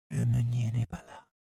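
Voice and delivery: put-on high, light kid's voice; lightly voiced boy, pitched high; young boy's line. A narrator's reading. Boy explaining the silent mill to narrator, young voice.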